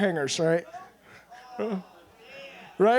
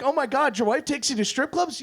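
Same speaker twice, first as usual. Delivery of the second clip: higher-pitched amazed reaction; blown away; 4 semitones higher than usual. Retold or imitated. People reacting to his strip club news, blown away. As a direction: imitate people who can't believe it. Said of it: "they're blown away".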